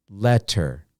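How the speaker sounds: "letter" in two parts, let-ter; syllable by syllable. Shown as a demonstration. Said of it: "Two syllables, two sounds".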